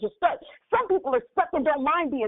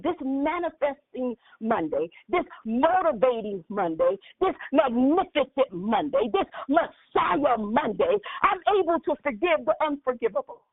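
declaration. Acted. Congregation declaration.

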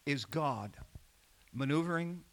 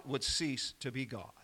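hushed whisper; 5 semitones lower, 7 dB quieter than usual. Real, not acted. Preacher drops to a hush.

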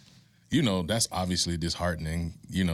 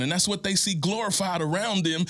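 impassioned preaching; 12 semitones higher than usual. Real, not acted. Urging a grieving single mom, high and impassioned. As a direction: pitch climbs high, preacher fervor.

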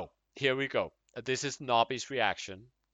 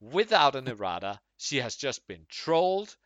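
passionate manly man, building up; manly man's voice; 3 dB louder than usual. Acted. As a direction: read it like a fired-up man. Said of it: "read it in, like, a passionate, uh, a man, manly man's voice".

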